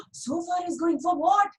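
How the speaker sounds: can't believe it; astonished boy. Acted. Dhani amazed at the long march.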